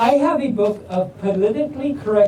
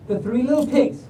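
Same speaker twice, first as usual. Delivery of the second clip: slightly higher, bright storyteller read; storybook reading; 4 semitones higher than usual. Acted. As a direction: read it like a bedtime tale to kids. Starts reading a bedtime story.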